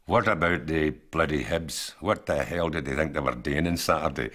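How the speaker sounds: slow, lightly done Edinburgh Glaswegian-style voice; a hint of an Edinburgh local's accent, slow and easy. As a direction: imitate the Edinburgh guy, drawn out in his accent. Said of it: "You know, that accent".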